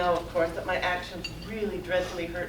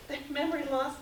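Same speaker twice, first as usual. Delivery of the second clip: higher, breezy brush-off; imitating people who argue; retold dismissive arguer; 5 semitones higher than usual. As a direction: wave it away as nothing. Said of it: "People may argue with you and say".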